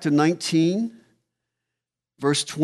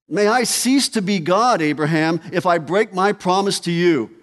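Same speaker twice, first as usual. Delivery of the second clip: voicing God's oath; 3 semitones higher, 5 dB louder than usual. God's oath voiced in sermon.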